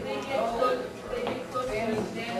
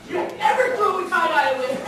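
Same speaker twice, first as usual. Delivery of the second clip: mock stern dad; 7 semitones higher, 10 dB louder, faster than usual. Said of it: "and he's like".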